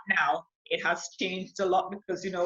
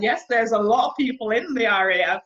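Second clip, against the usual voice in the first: louder, taken-aback retort; retold shock; 3 semitones higher, 6 dB louder than usual. Airwoman retelling her reply to the taxi driver, shocked. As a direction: push back in mild disbelief. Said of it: "I was shocked".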